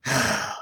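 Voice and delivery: soft mock sigh; a quiet puff of breath for effect; imitated exhale. Narrator acting out what Anders does before the blast, soft exhale. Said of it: "and Anders goes".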